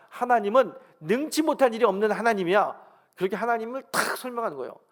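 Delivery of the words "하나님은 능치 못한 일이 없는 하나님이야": loud, high, emphatic proclamation; preacher's booming quote of God; forceful divine declaration. Retold or imitated. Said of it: "하나님 강력하게 말씀하십니다".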